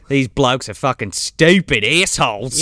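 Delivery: slow mock Australian complaint. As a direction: draw it out in a hammed-up Australian accent. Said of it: "I'm just imagining him".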